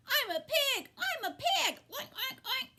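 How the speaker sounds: high, laughing squeals of play; a boy pretending to be a pig, giggling; gleeful boy. A narrator's reading. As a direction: crow with silly delight. Avery playing pig, laughing.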